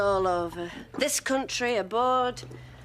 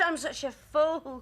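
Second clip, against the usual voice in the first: tearful; 4 semitones higher, slower than usual. Acted. Ashamed after being rejected.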